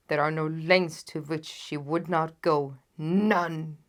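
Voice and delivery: loud king, pressing each claim; fearful monarch describing his rival; loud, urgent king. Acted. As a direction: insist she will do it. The king warns of Irene Adler.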